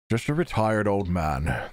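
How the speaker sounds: put-on slow British-accented old man; British accent, drawn out; English grandfather voice. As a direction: play a retired Englishman, unhurried. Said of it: "We're giving him the English voice".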